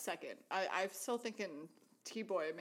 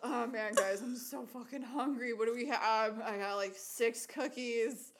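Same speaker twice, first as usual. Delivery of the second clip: stoned voice. Retold or imitated. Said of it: "Like, high as shit".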